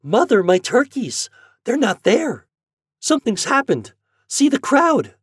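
very high, loud, panicky exclamations; alarmed boy. Acted. Boy to mother outside the market, alarmed. Boy finds his turkeys gone.

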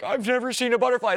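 high-pitched, wide-eyed wonder; imitating his own awestruck reaction; retold amazement. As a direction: marvel as if seeing it for the first time. Retelling tearful wonder at a butterfly.

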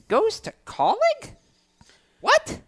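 high, disbelieving what; shocked, high-pitched disbelief; surprised. Real, not acted. Baffled by driver news.

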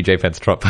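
"J Pence Trop" as "jay pence trop"; "J Pence Trop" anglicised, final P sounded; deliberately anglicised French. Shown as a demonstration. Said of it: "That's more like it".

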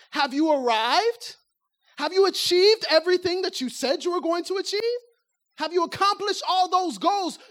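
pressing challenge. Acted. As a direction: press them hard on their goals.

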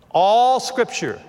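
Southern accent with a long drawn-out ALL. Real, not acted. Pastor reading a verse to his church, Southern accent slipping out. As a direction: let the Southern accent stretch the vowels. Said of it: "There's my Southern accent coming out".

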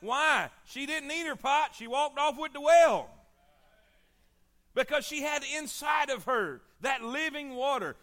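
building to a loud shout on "She walked off with the well"; preaching shout. Real, not acted.

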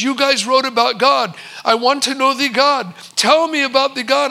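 put-on insistent Indian-accented plea. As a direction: imitate an Indian accent, pressing the request. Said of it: "in a very thick Indian accent".

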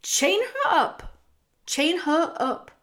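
high, loud barked order; furious rat's high shouted command. A narrator's reading. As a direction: shout the order frantically, then repeat it. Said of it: "shouted Roscuro".

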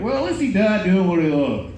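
smug pious condolence; annoying people. Retold or imitated. Annoying friends mocking his death by shark. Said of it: "running around like".

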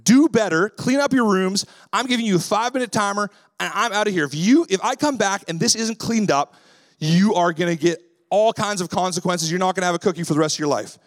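stern dad threatening consequences over the messy room. Retold or imitated. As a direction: lay down the law to the kids. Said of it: "what I've found is that when I say".

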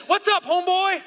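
loud, high-pitched jokey holler; mock casual greeting. Preacher joking how John didn't greet Jesus, mock holler. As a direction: call it out like greeting a buddy, hammed up.

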